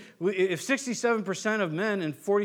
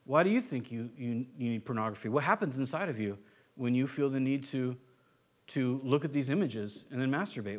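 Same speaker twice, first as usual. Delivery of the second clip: gentle questioning; 4 semitones lower, 3 dB quieter than usual. Retold or imitated. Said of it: "we can ask questions".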